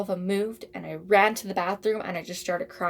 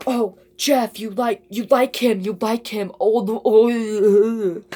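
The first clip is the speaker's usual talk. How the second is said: put-on teasing girls; 3 semitones higher, 8 dB louder, slower than usual.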